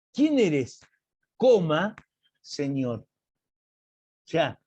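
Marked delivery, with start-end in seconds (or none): 0.1-3.0 playing dumb. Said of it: "él se hace el tonto y dice".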